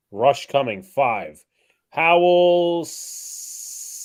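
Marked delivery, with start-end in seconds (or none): 1.9-4.1 drawn-out excited play call. Real, not acted. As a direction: stretch it as the play breaks. Live play call surge.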